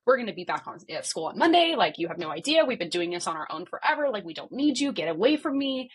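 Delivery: retelling a heated telling-off; retold angry outburst. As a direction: lightly act out losing your temper. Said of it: "I just started cussing him out".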